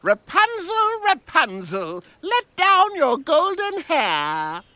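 high, slow sing-song call; prince's call. Acted. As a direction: call up to the tower slowly. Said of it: "He said".

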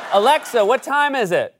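talking to Alexa. Acted. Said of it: "Amazon Echo that somebody poured water on".

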